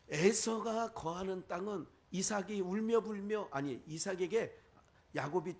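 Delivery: ordinary talk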